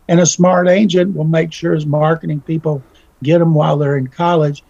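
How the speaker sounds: ordinary talk, nothing marked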